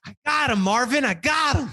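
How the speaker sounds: high, winded imitation; acted breathless triumph; out of breath. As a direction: gasp it out as if just back from a sprint. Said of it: "She's out of breath".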